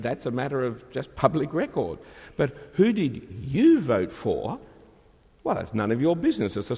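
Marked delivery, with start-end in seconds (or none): 2.4-4.6 slow question leaning on "you"; stress on you. Shown as a demonstration. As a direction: make "you" the point of the question. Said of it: "That's a completely different question".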